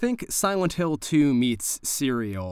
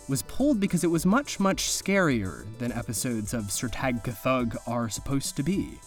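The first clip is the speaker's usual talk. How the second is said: measured horror-anthology host narration; narrator introduction. Acted. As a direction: present it like a TV host over eerie music. Presents the movie over music.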